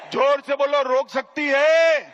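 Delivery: calling on the crowd. Real, not acted.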